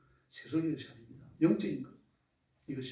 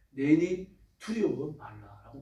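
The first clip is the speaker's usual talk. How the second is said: soothing Jesus; 2 semitones lower, 4 dB quieter, much slower than usual. Acted. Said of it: "걸어오시면서 뭐라 그럽니까".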